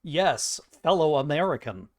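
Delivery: stiff mock Russian accent; Russian agent badly passing as an American; Russian spy. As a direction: greet them in a deliberate Russian-spy accent. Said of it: "those Russian spies who are like".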